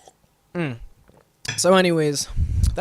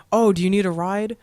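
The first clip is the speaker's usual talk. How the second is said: high, sing-song mock-helpful offer; taunting cop; 6 semitones higher, 4 dB louder than usual. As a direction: offer it in a higher, sweetly taunting voice. Mimics cops' taunting offer.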